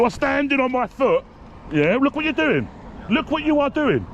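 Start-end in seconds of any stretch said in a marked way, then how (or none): 2.0-4.0 more and more upset, voice climbing; rising distress. Real, not acted. Detained man protesting to officers.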